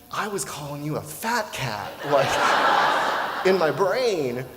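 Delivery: laughing at himself. Real, not acted. Laughing at own misjudgment.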